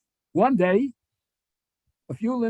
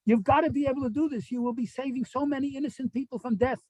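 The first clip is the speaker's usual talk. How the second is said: mild retold crying plea, higher; a touch of weeping urgency, pleading; imitating tearful plea; 6 semitones higher than usual. Rabbi pleading with the Godfather, tearful. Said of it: "Rav Aaron starts crying".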